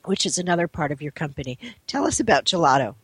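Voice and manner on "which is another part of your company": hoarse, fading voice, much softer; raspy near-whisper from a failing voice; losing voice. Real, not acted. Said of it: "I'm losing my voice".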